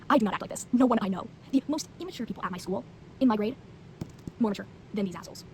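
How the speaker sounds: loud, indignant ranting; exasperated rant. Real, not acted. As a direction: vent it loudly, fed up. Ranting about characters.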